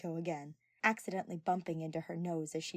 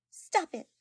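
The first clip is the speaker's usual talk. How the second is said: "Stop it." loud and much higher; 11 semitones higher, 9 dB louder than usual. Acted. Flustered girl cutting off her friend's compliments, loud and high. Retake of embarrassed reaction.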